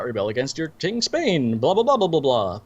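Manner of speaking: mock speech trailing into blahs; dismissive sing-along of a stock speech; rote recital, imitated. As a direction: skim through it like memorized lines. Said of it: "She gets that whole rote thing".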